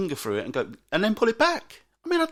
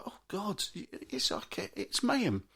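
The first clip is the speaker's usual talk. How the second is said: weary sigh; 3 semitones higher, 7 dB quieter, slower than usual. Retold or imitated. Weary parent aside.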